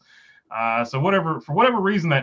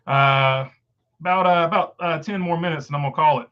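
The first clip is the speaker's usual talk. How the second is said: hoarse, straining throat; strangled voice; 2 semitones higher, 4 dB louder than usual. Real, not acted. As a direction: fight a throat that won't work. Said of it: "cannot get my throat, uh, to, to cooperate".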